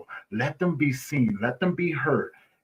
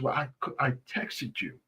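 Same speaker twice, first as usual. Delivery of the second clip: subdued retold reply; 9 dB quieter than usual. Retold depressed friend's reply.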